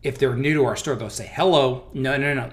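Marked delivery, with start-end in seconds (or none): 1.3-1.8 "Hello" blurted louder, with a falling end; a short, loud "Hello" dropping at the end; wrong phone greeting. Shown as a demonstration. Boss imitating a new employee answering the phone, wrong greeting. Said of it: "it's not hello".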